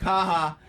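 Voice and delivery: gloating mock laugh; mocking comedian laugh. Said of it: "that comedian voice is like".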